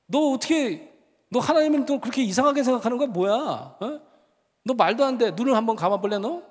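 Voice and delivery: re-enacted exasperated professor; retold scolding. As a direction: scold the student impatiently. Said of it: "성질도 급하고 그래가지고 제가 소리를 질렀습니다".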